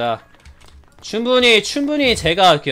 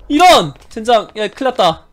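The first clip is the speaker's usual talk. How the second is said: alarmed shout; 4 semitones higher, 5 dB louder than usual. Real, not acted.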